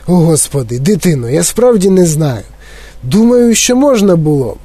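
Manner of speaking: lightly voiced, unsure eccentric; hesitant Wonka. Wonka musing to the boy, unsure. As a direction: think it over aloud, wavering.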